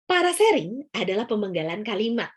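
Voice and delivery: "Parasering adalah pemenggalan kalimat" said in clear measured chunks; phrased with pauses. Shown as a demonstration. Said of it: "Contoh parasering adalah seperti ini". (dipenggal jelas per frasa)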